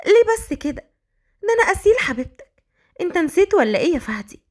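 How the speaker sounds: high, playful teasing coo; coquettish. Acted. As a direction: flirt and pout sweetly. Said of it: "أسيل بدلع".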